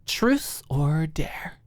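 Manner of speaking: slow whispered question; teasing whisper. Acted. Alicia whispering the question to her roommate. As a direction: whisper it like a tempting secret. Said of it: "looked intently".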